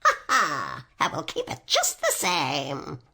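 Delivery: low, loud laughing witch; mocking laugh. A narrator's reading. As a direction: cackle at her as you gloat. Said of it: "laughing at her".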